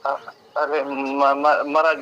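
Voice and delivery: flustered, drawn-out stutter before the title; startled stammering. Real, not acted. Agency worker learns a revered leader is calling, startled stammer. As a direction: stumble over the first syllables, taken aback. Caller reveals he is Yogi Adityanath.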